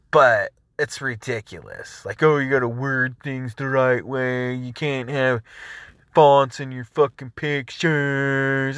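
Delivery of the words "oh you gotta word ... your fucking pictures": snide, drawn-out mimicry of a nagging rule; mocking quote. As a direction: imitate the site like a preachy scold. Mocking the site's rules.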